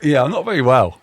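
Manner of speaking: blocked nose, nasal cold voice. Real, not acted. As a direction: talk through a stuffy nose. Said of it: "You can probably hear it in my nasally voice".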